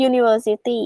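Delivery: university begun with a "yu" sound; "yu" at the start. Shown as a demonstration. Teacher showing students why it takes a, university opening on "yu". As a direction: say university with an initial "you" sound. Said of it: "แต่มันอ่านว่า U".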